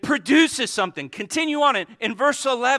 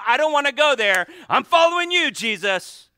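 a touch of a scared churchgoer pleading; lightly voiced anxious convert; half-hearted plea to Jesus; mock fearful believer; 6 semitones higher, 4 dB louder than usual. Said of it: "people that heard about hell".

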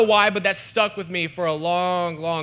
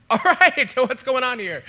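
mock stern teacher; 6 semitones higher, 4 dB louder than usual. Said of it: "just like".

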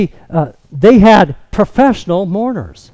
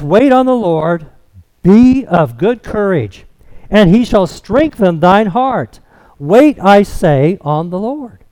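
scripture reading. Acted. Reads the psalm aloud.

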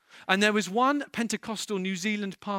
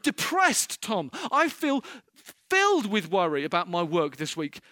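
mock complaining worshipper. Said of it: "It's coming and saying".

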